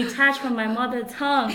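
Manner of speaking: mock alarm, breaking into a laugh; laughing dismay. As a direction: laugh through a playful panic. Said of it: "And I'm like".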